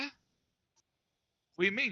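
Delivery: very slow, drawn-out high confusion; mock bewildered what; confused. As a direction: stretch it out baffled. Son confused.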